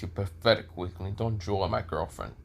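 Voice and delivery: low, understated put-down; contemptuous warning. Acted. Issei scorns a rival, possessive.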